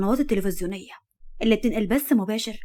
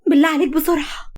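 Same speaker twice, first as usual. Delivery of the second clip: a touch of crying, pitched up and pushed; mild tearful urging of the driver; pleading through tears; 5 semitones higher than usual. Acted. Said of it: "وهي بتقول ما بين عياطها". (رجاء وسط البكا بخفة)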